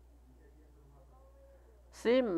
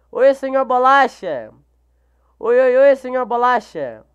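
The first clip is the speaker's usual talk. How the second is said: loud high hello; greeting a fellow streamer, excited; 3 semitones higher, 6 dB louder than usual. Real, not acted. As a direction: shout a happy hi.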